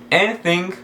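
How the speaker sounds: "anything" ending on a nasal, no hard g; "anything" with the final G left silent. Shown as a demonstration. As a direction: say "anything" without releasing the G. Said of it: "o G não é pronunciado".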